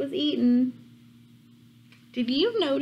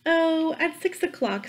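high, breezy wolf; 6 semitones higher than usual. Acted. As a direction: toss it off like a sly wolf. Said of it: "said the wolf".

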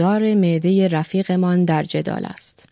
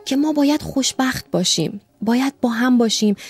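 put-on lightly higher, rapt young man picturing his wife; dreamy young lover; 5 semitones higher than usual. Young secretary dreamily describes his wife to the doctor. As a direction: paint her lovingly, lost in the image. Secretary recalls wife's whispers.

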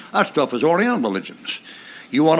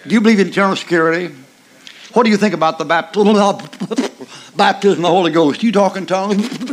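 1 mocking quiz. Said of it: "you come up there and say".

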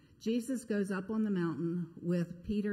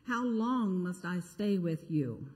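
exasperated rebuke, louder; upset; 5 dB louder than usual. Acted. Jesus rebuking the faithless crowd, exasperated loud rebuke. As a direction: scold the crowd, then command. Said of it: "Jesus is upset as well".

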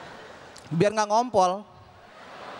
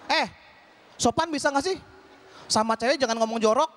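higher, mock-offended scolding; mock angry girl; 3 semitones higher than usual. An offended girl scolds him over chat, in a mock-angry voice. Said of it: "Eh dia marah gitu kan".

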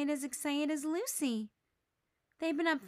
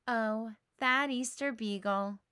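smiling fondly. Acted. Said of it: "with a big smile".

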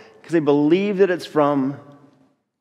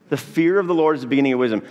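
quick recited verse; 2 semitones lower, much faster than usual. Shown as a demonstration. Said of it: "You have heard that one before".

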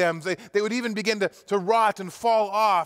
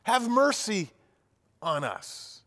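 crying out; 3 semitones higher, much slower than usual. Acted. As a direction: beg for mercy from a distance. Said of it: "crying out".

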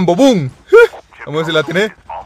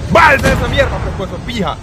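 1 angry shout; 4 semitones higher than usual. Real, not acted. Tanks keep killing him.

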